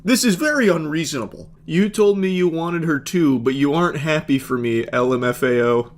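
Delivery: a hint of a petulant man-child; mock whiny boyfriend. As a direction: parody the entitled gamer boyfriend. Host mocks boyfriend's self-justification.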